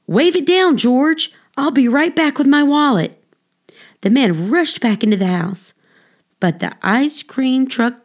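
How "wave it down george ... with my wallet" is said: hurried urging. Acted. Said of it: "man urges George hurriedly".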